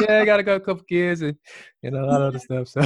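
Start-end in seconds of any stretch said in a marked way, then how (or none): 0.0-0.6 higher, amused, laugh breaking in. Real, not acted. Host jokes about a married old flame, laughing. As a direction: talk through a laugh.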